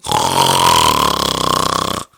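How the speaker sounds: loud, low, long rasping snort; one big rough, drawn-out snort; imitating a massive rasping noise; big sudden noise. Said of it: "you go this big".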